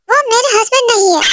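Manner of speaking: furious daughter shouting back; angry shout. Acted. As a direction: yell it at your parents in a temper. Daughter angrily denying husband.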